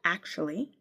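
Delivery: through gritted teeth. A narrator's reading. Wife answering husband through gritted teeth, softly. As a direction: hold the temper in, softly. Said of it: "I said through gritted teeth".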